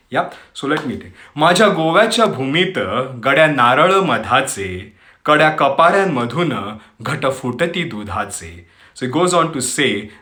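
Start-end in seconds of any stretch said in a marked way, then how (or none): 1.4-8.5 poem recitation. Acted. Host recites Marathi poem on Goa to listeners, poetic recitation. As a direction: recite in measured phrases, pausing between lines.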